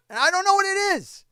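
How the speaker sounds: real angry tirade at New York fans; furious rant. Real, not acted. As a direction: tear into them. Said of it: "I'm too fucking mad".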